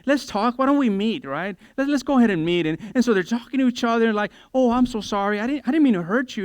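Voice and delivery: imitating a woman. Women voiced making up.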